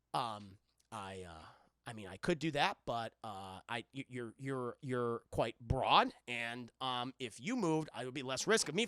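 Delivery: tactful hesitation. Retold or imitated. Jack tactfully calls the Scotsman broad, hesitant. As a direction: hem and haw as a polite, reserved man. Retold Jack hedges politely.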